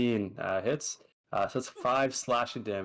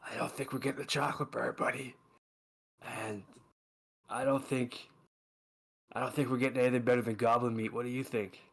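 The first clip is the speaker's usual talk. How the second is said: growl; faster than usual. Acted. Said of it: "growl to Pierce growl to Nash".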